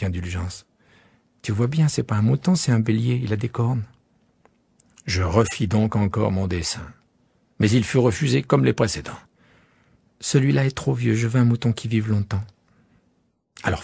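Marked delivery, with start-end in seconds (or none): 1.4-3.8 put-on a small boy insisting on his sheep; young prince pressing his request; little prince. Prince corrects narrator. 10.2-12.4 put-on a small boy insisting on his sheep; young prince pressing his request; little prince. Prince refuses again.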